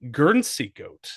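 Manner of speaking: lightly put-on English accent; a hint of English accent; mock English accent. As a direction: say "Guernsey Goat" the English way. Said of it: "my fuckhead English accent".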